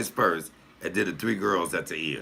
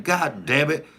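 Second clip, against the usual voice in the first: higher, exasperated cry; mock outraged cry; 7 semitones higher, slower than usual. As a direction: throw it out like fed-up family gossip. Annoyed sister retelling outburst.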